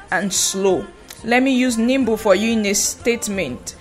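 usual speaking voice

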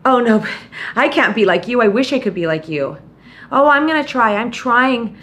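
whiny self-doubter. Retold or imitated. Listener excusing herself to the host, mild whiny voice. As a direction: mimic the listener making excuses.

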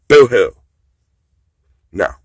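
loud, high boo-hoo taunt; mock them with fake sobbing; hammed-up fake crying.

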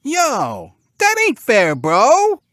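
high, loud pig protest; squealy sulking cartoon pig; pouting pig. A narrator's reading. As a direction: pout and complain like a piglet bro. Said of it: "The brown-shirted pig pouted".

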